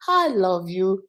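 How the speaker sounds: soft, tender I love you; sweet and soft. Shown as a demonstration. Parent showing viewers a soft sweet I love you. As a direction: say it gently, sweetly. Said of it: "it's sweet".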